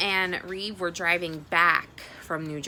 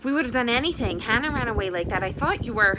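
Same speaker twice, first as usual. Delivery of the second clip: high, loud, rushed through tears; mother crying with worry and relief; tearful mother; 7 semitones higher, 6 dB louder than usual. Acted. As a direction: pour it out, near sobbing. Mother crying after burst into tears.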